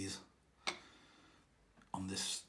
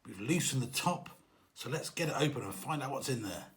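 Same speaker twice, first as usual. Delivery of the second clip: hammed-up excitement. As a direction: play it like a mock big discovery. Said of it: "an edited version to make it more exciting".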